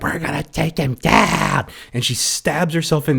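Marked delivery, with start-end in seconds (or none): 0.0-1.7 lightly voiced, higher determined woman; mock determined heroine. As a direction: imitate her tough movie line. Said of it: "and she's like".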